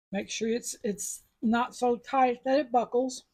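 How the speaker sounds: talking around a mint; words round a mint in the mouth; mouth full. Real, not acted. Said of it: "I have a mint in my mouth".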